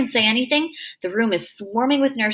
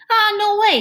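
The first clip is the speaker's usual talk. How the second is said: excited; 12 semitones higher, 5 dB louder than usual. Acted. Freak excited denial, high loud.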